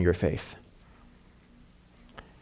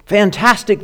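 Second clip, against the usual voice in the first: much higher, louder delighted cheer; 10 semitones higher, 8 dB louder than usual. Acted. The mom cheers at Santa's clone gift, thrilled and loud. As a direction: shout it like a dream came true. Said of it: "the mom cheered".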